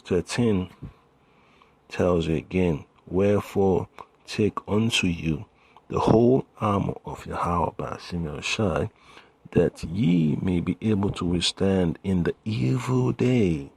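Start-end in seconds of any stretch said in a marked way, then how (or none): 3.1-13.7 emphatic Bible verse declamation; scripture reading. Acted. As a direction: proclaim the verse to the congregation. Reads scripture aloud.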